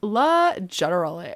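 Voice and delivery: "legit-turily" said lazily, as one blended word; tween slang word. Retold or imitated. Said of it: "talking like this".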